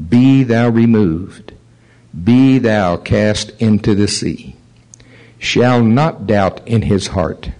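slow, deliberate Bible reading; scripture reading. Acted. Preacher reading Mark eleven to congregation, slow scripture reading. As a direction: read the verse out slowly, phrase by phrase.

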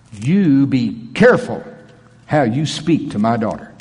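authoritative warning. Retold or imitated. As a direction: warn him calmly, with full authority. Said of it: "I heard it in this tone, just like I'm gonna say it".

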